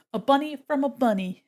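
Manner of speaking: ordinary talk, nothing marked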